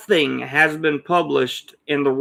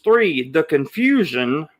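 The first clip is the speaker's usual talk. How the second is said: slow, leaning on the word confusion; stress on confusion; slower than usual. Real, not acted. Host listing video topics to viewers, stressing confusion. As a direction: hit confusion hard and drag it a bit. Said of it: "let me stress the word confusion".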